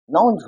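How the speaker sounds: "नाउन्स" ending in a voiced z or j sound; z plural ending. Shown as a demonstration. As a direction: end "नाउन्स" on ज, not स. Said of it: "ज पढ़ा जाएगा". ("नाउन्स" के अंत में ज की ध्वनि)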